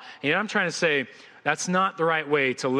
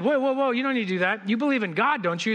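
higher-pitched, mock-urgent plea to stop; urgent intervening; 4 semitones higher than usual. Stranger to a man about to jump, mock urgent. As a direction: play a would-be rescuer talking someone down. Stranger stops a jumper, in joke.

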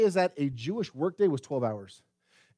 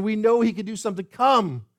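urgent, raised plea; crying out; 4 semitones higher, 5 dB louder than usual. Acted. Preacher voices sisters sending for Jesus, urgent crying out. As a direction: call out for help, pressing. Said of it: "they're crying out and sending for Jesus".

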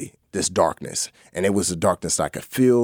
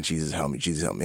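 retold crying plea; 6 semitones lower, 7 dB quieter, faster than usual. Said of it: "And so I just started crying".

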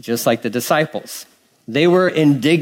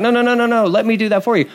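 Peter's protest; 7 semitones higher, faster than usual. Retold or imitated. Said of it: "Peter's like".

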